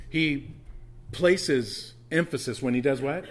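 "He", pause, "places emphasis" slow and loud, rising on "what"; emphatic prompting question. Shown as a demonstration. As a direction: quiz the congregation, leaning on "places emphasis" and lifting "what".

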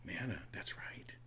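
hushed answer to the crowd; whispered aside. Real, not acted. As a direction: breathe it like a quick aside. Answering his own question aside.

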